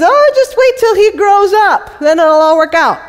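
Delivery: a father-in-law fobbing her off sweetly; mock soothing promise. Judah stalls Tamar.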